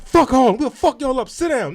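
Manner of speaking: high-pitched crowd taunts; mock yell across a rowdy audience; imitated yelling. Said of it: "yelling at the people in Harlem".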